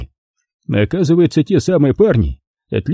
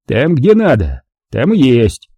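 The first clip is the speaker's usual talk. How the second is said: good-natured grumble; 2 semitones higher, slower than usual. Acted. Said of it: "проворчал он почти добродушно".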